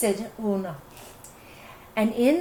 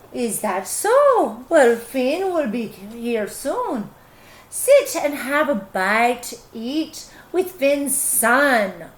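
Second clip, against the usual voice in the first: sly, slow hostess; slower than usual. Acted. Una slyly tricks the giant.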